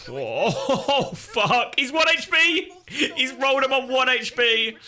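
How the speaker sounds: high, rising laugh-yell of disbelief; excited yell. Real, not acted. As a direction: shriek with delight as it builds. Tense play, clutch escape.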